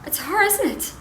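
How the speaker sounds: high, loud accusing question; sharp accusation. Acted. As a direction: jump high and loud on HER. Accuses husband over other woman.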